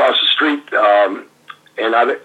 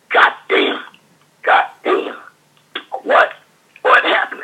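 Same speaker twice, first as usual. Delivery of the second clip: mock Dream outburst. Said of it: "the Dream's going".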